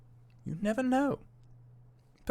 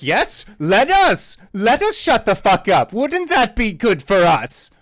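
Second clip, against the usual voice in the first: sarcastic; 5 semitones higher, 6 dB louder than usual. Acted. Arillo sarcastically echoes the order.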